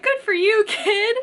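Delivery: lightly voiced dad. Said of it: "And he's like".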